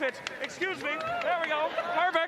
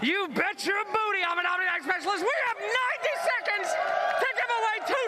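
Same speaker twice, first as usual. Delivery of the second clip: hype shout. Real, not acted. Host hyping up live crowd.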